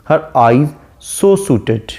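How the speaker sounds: slow, measured recitation of the verse; reading the poem. Shown as a demonstration. Teacher reciting the sonnet line slowly to students. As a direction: read the line out slowly to the class.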